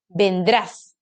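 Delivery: "vendrás" said ven-DRÁS; stress on last syllable. Shown as a demonstration. Teacher shows the tonic syllable, "vendrás" stressed on the end. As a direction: put the weight on DRÁS in "vendrás". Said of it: "Aquí está su sílaba tónica".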